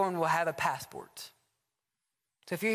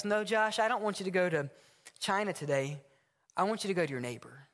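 calm voice of God; faster than usual. Acted. Acted dialogue, God answering Josh.

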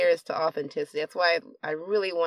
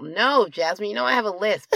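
playful outburst; 3 semitones higher, 4 dB louder than usual. Real, not acted. Playful protest at teasing friend.

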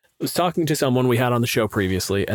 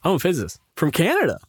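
quick deadpan; 5 semitones higher, faster than usual. Shown as a demonstration. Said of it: "the inflection change".

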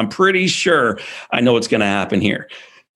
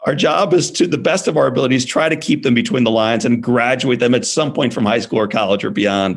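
put-on husband defending the boys to his wife, raised pitch; earnest pleading; 5 semitones higher than usual. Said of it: "And, and I'm like".

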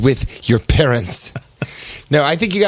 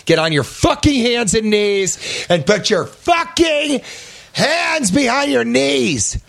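mock robber orders; 8 semitones higher than usual. Robber barking orders at tellers.

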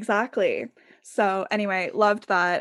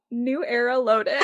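laughing announcement; 3 semitones higher than usual. Acted. Joking announcement of new era.

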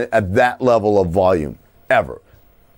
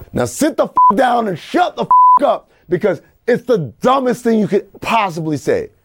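heated rant; 12 semitones higher than usual. Retold or imitated. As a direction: tell him off hard. Ranting against Oscar's claim.

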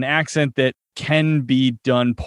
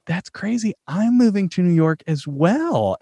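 acted feigned coincidence; 6 semitones higher than usual. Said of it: "And I was like".

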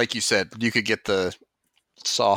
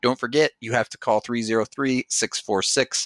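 ad read. Acted. Podcast host reading a local electrician ad, upbeat. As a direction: sell it like a radio spot.

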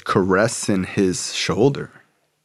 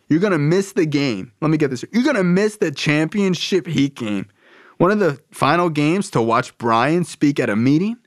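high-pitched, drawn-into-disbelief questioning; incredulous dad; 7 semitones higher than usual. Retold or imitated. Dad to Carl about skipping game, incredulous. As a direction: play a sports fan who can't believe it.

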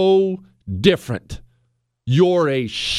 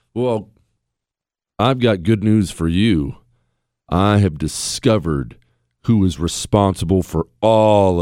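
sinister whisperer; 11 semitones lower than usual. Acted. Mock sinister recruiter voice.

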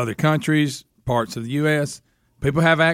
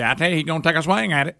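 hillbilly voice. Retold or imitated. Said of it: "some hillbilly was up to bat. He'd say".

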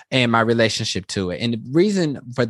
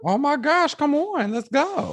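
excited. Retold or imitated. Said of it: "I was like".

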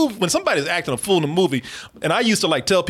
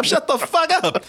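slow scold; 9 semitones higher, slower than usual. Retold or imitated.

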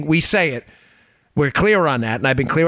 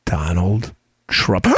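very low, slow, portentous announcement; mock-villain gravitas; dramatic Putin reveal; 13 semitones lower, much slower than usual. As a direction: let the name drop slowly and deep. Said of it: "it's a real dramatic pause".

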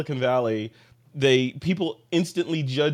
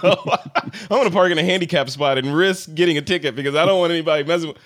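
laughing; 3 semitones higher, 6 dB louder than usual. Real, not acted. Laughing about flashy Tesla owners.

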